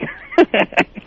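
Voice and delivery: evil laugh. Real, not acted. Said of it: "That evil laugh".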